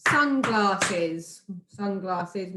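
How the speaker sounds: "Sunglasses" in three clear beats, sun-glass-es; syllable by syllable. Shown as a demonstration. Teacher testing a word for syllables, "Sunglasses" carefully segmented. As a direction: sound out each chunk of "Sunglasses". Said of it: "pronouncing the words clearly".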